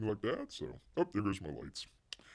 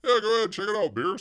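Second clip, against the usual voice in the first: excited yes; 10 semitones higher, 6 dB louder than usual. Retold or imitated. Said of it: "you ladies were like".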